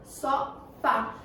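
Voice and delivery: "Sofá" split, with force on "fá"; stress on final syllable. Shown as a demonstration. Teacher shows which syllable is stronger, stressing "fá" in "Sofá". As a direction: lean on the "fá" of "Sofá". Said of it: "Que eu fiz mais força".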